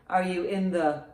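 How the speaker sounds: usual speaking voice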